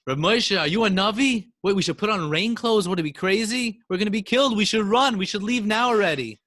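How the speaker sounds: loud, high panicked protest; frightened townspeople shouting at the rabbi; crowd crying out. A narrator's reading. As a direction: shout your alarm at the rabbi. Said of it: "everybody cried out".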